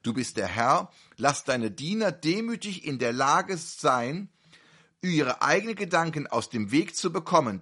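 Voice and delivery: solemn prayer. Real, not acted. Preacher praying aloud to God for his servants, solemn prayer. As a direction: pray humbly before the congregation. Closing prayer before the sermon.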